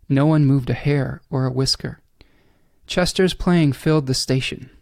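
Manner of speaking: measured read-aloud with pauses between phrases; unhurried storybook reading; story narration. Acted. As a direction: read the passage aloud, letting each phrase settle. Reads a passage aloud from the book.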